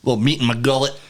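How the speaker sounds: swallowing mid-sentence; food stuck in throat. Real, not acted. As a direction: talk past a lump of food. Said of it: "You've been swallowing this whole sentence".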